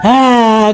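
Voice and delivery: ghost's groan. Acted. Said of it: "kata dia".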